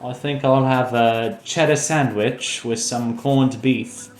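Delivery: lightly put-on British accent; a mock Brit ordering at a diner, in a British accent. Puts on British diner customer voice.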